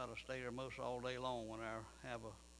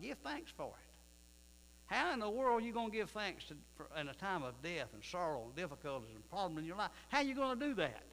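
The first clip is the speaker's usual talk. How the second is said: preaching cry; 4 semitones higher than usual. Acted. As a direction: rise into a full preacher's cry.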